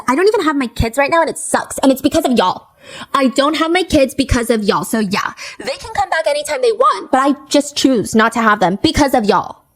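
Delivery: half-hearted mimicry of a whiny streamer; mocking Ashley. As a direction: lightly mimic her complaint. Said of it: "And she says".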